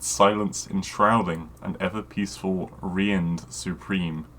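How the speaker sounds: measured fantasy audiobook read; deadpan dramatic narrator; story narration. A narrator's reading. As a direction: narrate the pulp tale straight-faced, in even phrases. Reads bad fantasy story aloud.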